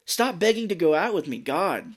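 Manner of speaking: mock-annoyed dismissal; mock exasperated snap. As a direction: play up the exasperation. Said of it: "she does yell at Chris, and she's like".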